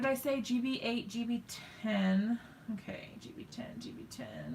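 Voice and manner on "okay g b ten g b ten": breathy under-breath search, barely voiced; whisper to herself. Real, not acted. Searching her desk for a marker, whispered to herself. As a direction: whisper the marker name while rummaging. Muttering while hunting for marker.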